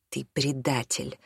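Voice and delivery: soft, slow accusation; quietly. A narrator's reading. Son quietly accusing his father of betrayal. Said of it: "тихо сказал Артём".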